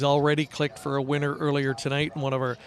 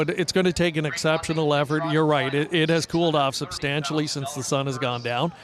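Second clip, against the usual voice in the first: cold, teeth chattering; words through chattering teeth. Real, not acted. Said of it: "My teeth are chattering a little bit".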